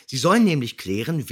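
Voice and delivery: normal talking voice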